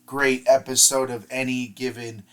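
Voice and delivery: flat robotic-sounding voice. Real, not acted. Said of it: "I don't know why I'm sounding like a robot right now".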